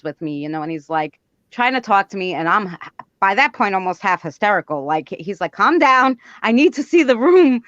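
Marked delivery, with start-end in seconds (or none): 5.5-7.6 firm command. Retold or imitated. Helper takes charge on call.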